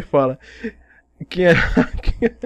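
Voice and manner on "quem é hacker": slow, laughing mid-question. Real, not acted. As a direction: laugh through the words. Mocking accuser, laughing.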